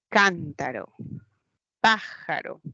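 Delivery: cántaro and pájaro punched on CÁN and PÁ; stress on antepenultimate syllable. Shown as a demonstration. Teacher giving esdrújula examples, first syllables stressed in cántaro, pájaro. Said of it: "La mayor fuerza de voz está en la antepenúltima".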